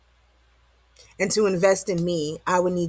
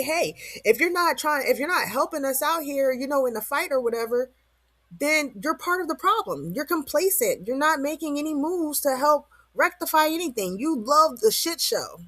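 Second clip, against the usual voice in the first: preachy accuser; 6 semitones higher than usual. Retold or imitated. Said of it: "'cause people say".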